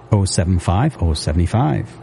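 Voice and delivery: usual speaking voice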